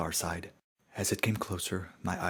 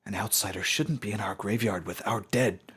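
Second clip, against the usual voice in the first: a bit louder, guarded accusation; suspicious, slightly raised challenge; suspicious young pony; 3 semitones higher, 5 dB louder than usual. Acted. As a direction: warn the outsider off.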